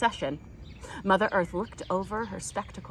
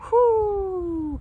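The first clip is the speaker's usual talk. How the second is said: high whispered whoo; howling wind; 10 semitones higher, 7 dB louder than usual. Acted. The autumn wind calling to the Root children, whispered whoosh. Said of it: "called the wind".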